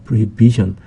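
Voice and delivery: "prohibition" with the stress on BI, just before -tion. Shown as a demonstration. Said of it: "강세는 B에 있습니다".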